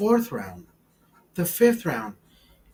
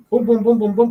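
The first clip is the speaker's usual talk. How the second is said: loud rhythmic boom; 5 semitones higher, 5 dB louder than usual. Retold or imitated. Rhythmic thrusting sound effect.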